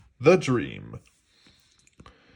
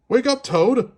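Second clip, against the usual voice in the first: Frog voice; 13 semitones higher, 6 dB louder than usual. A narrator's reading. Frog waking his friend.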